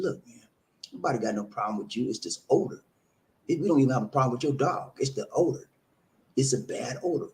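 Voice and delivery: low, softened, respectful explaining; calm, reasonable. Retold or imitated. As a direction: retell reasoning calmly with a neighbor. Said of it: "I talked to him respectable and I talked to him reasonable".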